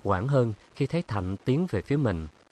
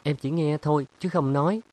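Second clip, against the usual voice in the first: high, louder defiant retort; stubborn; 7 semitones higher, 4 dB louder than usual. Acted. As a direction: dig in, push it up and out. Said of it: "Cô bướng lên".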